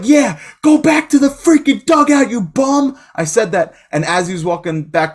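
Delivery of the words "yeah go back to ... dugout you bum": high, loud jeering heckle; heckling yell. Retold or imitated. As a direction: jeer him back to the dugout. Heckling a batter who struck out.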